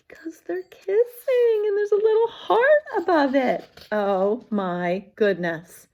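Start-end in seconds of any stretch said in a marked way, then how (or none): 0.1-3.7 high, breathy giddy whisper; teacher whispering gossip to the class; excited whisper. Acted. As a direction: share the secret in a thrilled hush.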